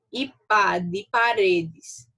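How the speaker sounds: slow "pá de paredes", spelling out the syllable; weak syllable demo. Shown as a demonstration. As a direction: draw out the syllable pá slowly. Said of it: "fraca nos momentos em que são pronunciadas".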